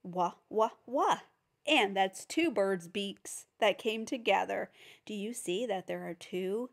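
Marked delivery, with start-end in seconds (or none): 0.0-1.2 "wah" with rounded lips, rising at the end; teacher modelling "wah"; w sound. Shown as a demonstration. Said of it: "our next sound is".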